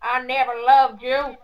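lightly voiced cold villain; a hint of a heartless husband; film villain voice.

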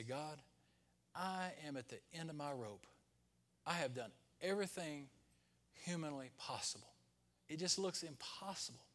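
softly voiced discouragement, spaced out in weary phrases; a quiet, understated plea to God; discouraged prayer. Preacher retelling his prayer at the end of his rope, discouraged. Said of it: "when I get discouraged".

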